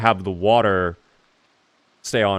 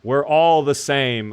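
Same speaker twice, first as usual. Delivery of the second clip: mock slogan; 3 semitones higher, 3 dB louder, much slower than usual. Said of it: "according to Frank Green".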